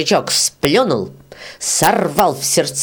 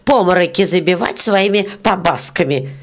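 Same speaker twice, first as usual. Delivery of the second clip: put-on angry old beetle; 4 semitones higher than usual. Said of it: "зашипела жужелица".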